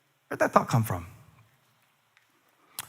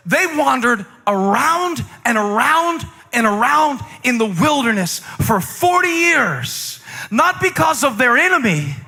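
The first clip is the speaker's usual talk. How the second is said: preaching; 6 semitones higher than usual. Real, not acted. Preaching at full force.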